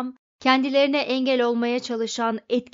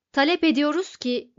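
loud, higher shouted demand; raised, insistent cry; cried out; 4 semitones higher, 5 dB louder than usual. A narrator's reading. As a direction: proclaim the demand forcefully. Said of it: "diye haykırdı Vronfondel".

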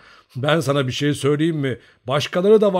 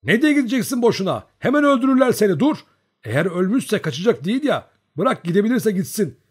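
high, loud, insistent orders; raised, agitated voice; urgent warning; 8 semitones higher, 7 dB louder than usual. A narrator's reading. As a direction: shout them back from danger.

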